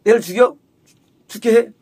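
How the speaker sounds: mildly accusing questions; imitated challenge. Mother challenging Elijah over her child, mildly confrontational. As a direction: question him accusingly, as a quote. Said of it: "따지는 거예요".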